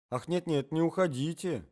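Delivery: high plea, not loud; urgent cry. A narrator's reading. Wife cries to her husband to stay, high plea. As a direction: beg someone to stay, mildly urgent. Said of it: "закричала жена".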